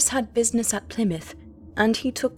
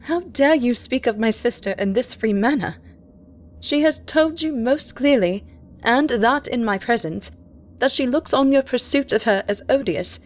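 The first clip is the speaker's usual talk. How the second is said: raised, higher indignant scolding; 3 semitones higher than usual. Acted. Diarist rebuking the captain, indignant. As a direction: defend her sister with outrage. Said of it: "I cried indignantly".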